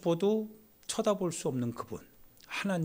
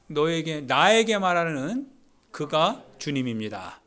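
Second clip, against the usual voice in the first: call and response; 6 dB louder, slower than usual. Shown as a demonstration. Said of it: "따라해 봅시다".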